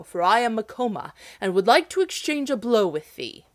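loud commanding shout. Acted. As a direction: shout the giant down. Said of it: "shouted the hero".

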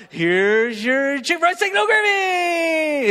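slow, rising, then a loud high shout on "no gravy"; triumphant shout. Retold or imitated. Waiter serving the rude customer, slow triumphant shout. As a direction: drag it out and crow the last words.

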